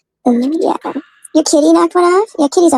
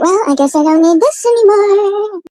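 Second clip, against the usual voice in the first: resigned sigh; 7 semitones higher, slower than usual. Retold or imitated. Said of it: "I'm like".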